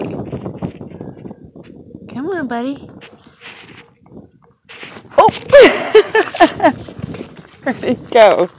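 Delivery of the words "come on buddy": hushed come-on to a grasshopper; gentle whispered coaxing. Real, not acted. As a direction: whisper softly to coax the bug closer. Coaxing grasshopper onto her hand.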